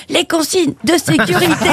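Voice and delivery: drawn-out suggestive cabin crew line; knowing flight attendant. Retold or imitated. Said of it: "elle dit".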